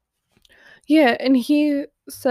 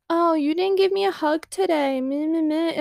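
higher, whiny mock of a pouting boy; a hint of a pouty boy, mock whine on "Meh, meh, meh"; lightly voiced sulky boy complaining; 5 semitones higher than usual. Mocking boy's whiny complaint.

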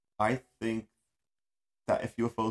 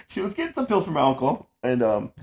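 laughing; 5 semitones higher, 10 dB louder than usual. Real, not acted. Laughs at own slip.

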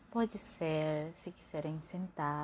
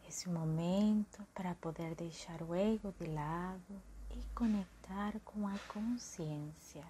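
guided meditation. Acted. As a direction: gently guide the listeners into calm breathing. (voz suave de meditação guiada, lenta e calma)

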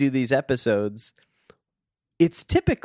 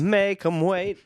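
high emphatic; 8 semitones higher, slower than usual. Shown as a demonstration. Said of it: "Build that into play with pace".

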